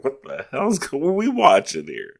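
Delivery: high, alarmed dad asking what's on; dad's alarmed voice. Retold or imitated. Son retelling dad reacting to the film, alarmed. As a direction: play a startled father. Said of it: "He's like".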